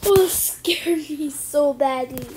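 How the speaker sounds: shaken whisper. Real, not acted. Shaken after scare.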